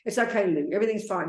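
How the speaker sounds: gently soothing yourself, "It's okay, Lou"; calm yourself down like a friend would; reassuring self-talk. Shown as a demonstration. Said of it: "You sort of talk to yourself".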